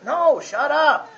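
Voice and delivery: loud, slow, high command; stern loud NO, shut up; firm shut up. Acted. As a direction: slam the door on the temptation. Commanding the flesh to stop.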